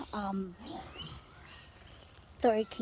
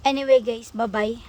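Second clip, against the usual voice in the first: startled; 10 dB louder than usual. Real, not acted. Startled, then signs off.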